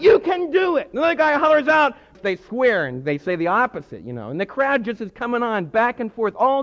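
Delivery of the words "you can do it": loud, high cheer; hollering fan. Retold or imitated. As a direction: shout encouragement from the crowd.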